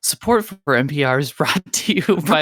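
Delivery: lightly voiced public-radio sponsor read; a hint of radio announcer; NPR radio voice. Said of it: "also known as my N P R voice".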